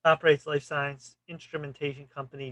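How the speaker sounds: ordinary talk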